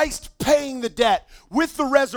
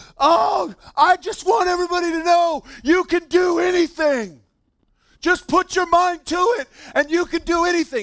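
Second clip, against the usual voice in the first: put-on, overexcited, hyped-up gushing, pitched up; 6 semitones higher, 4 dB louder than usual. Retelling what a man said on the mic to the announcer, imitating him hyped up. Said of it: "And he is hyped up".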